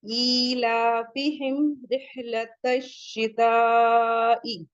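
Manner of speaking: very slow chanted recitation with stretched madd; slow melodic verse recitation; Quran recitation. Shown as a demonstration. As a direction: recite it slowly, holding the long vowels. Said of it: "four to five count इसे पढ़ेंगे".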